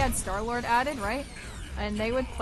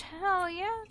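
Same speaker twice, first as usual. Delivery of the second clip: excited cheer; 8 semitones higher than usual. Real, not acted. Excited reaction to achievement.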